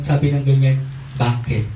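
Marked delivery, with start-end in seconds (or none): 1.2-1.6 calm reply. Retold or imitated. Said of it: "Biglang mahinahon".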